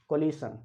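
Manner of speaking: collision said as कोलिशन, ending "shun"; common mispronunciation. Shown as a demonstration. Teacher imitates people's mistake, कोलिशन with "shun" ending. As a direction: say कोलिशन with sh instead of zh. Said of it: "mispronounce करते हैं".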